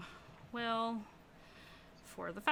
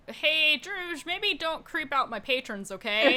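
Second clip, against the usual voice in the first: louder, raised scolding from the bartender; 6 semitones higher, 5 dB louder than usual. Acted. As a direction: tell him off, half laughing. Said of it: "Dango is like".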